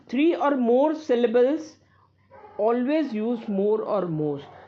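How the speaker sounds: slow, careful reading of a rule; slow dictation. Acted. Teacher dictating a grammar rule to students, slow and careful. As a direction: read the rule slowly so students can copy it.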